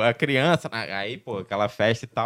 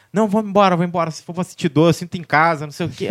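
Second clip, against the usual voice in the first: pleading wife in labor; 5 semitones higher, faster than usual. Retold or imitated. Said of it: "ficava toda hora me pedindo pra ir embora".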